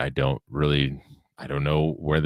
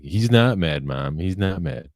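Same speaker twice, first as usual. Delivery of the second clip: daughter snapping; 3 semitones higher, slower than usual. Retold or imitated. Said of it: "my daughter will snap in there".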